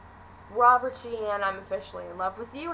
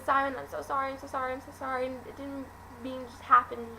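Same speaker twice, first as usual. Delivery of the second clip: higher-pitched acted apology; pleading apology; 4 semitones higher, faster than usual. Clary apologizing to Simon after the kiss, mildly pleading. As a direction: lightly imitate a repeated, pleading sorry.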